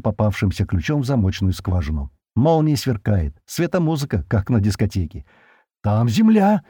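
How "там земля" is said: high cry of discovery; sudden yell. A narrator's reading. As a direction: call out suddenly, pitch jumping up. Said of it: "неожиданно заорала Кали".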